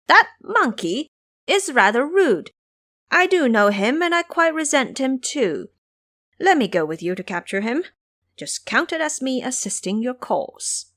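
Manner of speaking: a hint of a scheming old master; sly disguised Taoist. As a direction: feign scorn for the monkey, playing along. Monkey King disguised, mocking himself.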